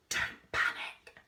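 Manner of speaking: unvoiced, slow whisper. A narrator's reading. Lila whispering to the others near a snake. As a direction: breathe it out so the snake won't hear. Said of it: "whispered Lila".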